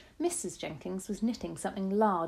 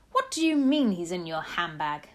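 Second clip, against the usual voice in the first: loud, incredulous father; indignant shout; 6 dB louder than usual. A narrator's reading. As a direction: shout it in disbelief, moderately loud. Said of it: "Mister Jenkins shouted".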